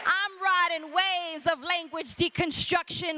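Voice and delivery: rhythmic, driving slam poetry delivery; spoken word poem. Acted. Poet defending their Puerto Rican speech, rhythmic slam delivery. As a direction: punch out the syllables in a steady beat.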